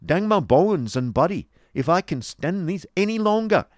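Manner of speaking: loud, high-pitched Yorkshire rant; blustering table-thumper's outburst; angry Yorkshireman. Acted. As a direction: threaten them in broad Yorkshire, at full volume. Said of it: "said the Yorkshireman, striking the table heavily".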